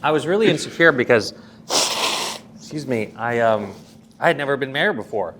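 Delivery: real emotion rising in the voice; choked up. Real, not acted. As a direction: voice tight with emotion, pushing through. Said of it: "I'm getting emotional".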